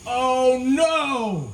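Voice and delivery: high alarmed yelp from the friend; panicked cry. Retold or imitated. Friend in the ocean realizing the keys are gone, high panicked yelp. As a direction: squeal it out in sudden alarm.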